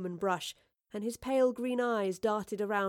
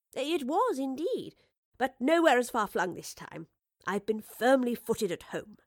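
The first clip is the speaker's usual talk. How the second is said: a touch higher, lively woman professor; lightly played professor chatting with an old friend; lightly voiced cheerful Professor; 4 semitones higher, 4 dB louder than usual.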